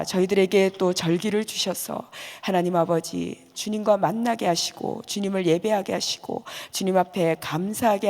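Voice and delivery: earnest, evenly intoned closing prayer. Real, not acted. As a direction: lead the congregation in a steady, sustained prayer. (간절히 이어 가는 기도조)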